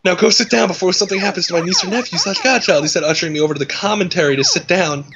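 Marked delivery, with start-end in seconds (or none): 0.0-2.8 reading the line through giggles; can't hold the laugh while reading. Real, not acted. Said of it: "reread through laughter".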